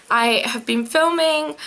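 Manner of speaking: hiccuping mid-sentence; suppressing hiccups. Real, not acted. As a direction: talk through a hiccup.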